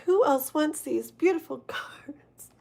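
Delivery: conspiratorial whisper with a laugh inside. Retold or imitated. Teasing the deck in a whisper. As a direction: whisper it like a secret offer to the cards. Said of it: "I'm like".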